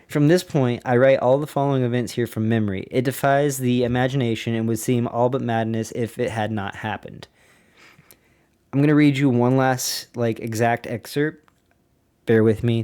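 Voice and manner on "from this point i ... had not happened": measured, documentary reading voice; diary reading. Acted. Podcaster reads an admiral's diary to listeners, in a steady narrating voice. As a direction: read the flight log like a narrator.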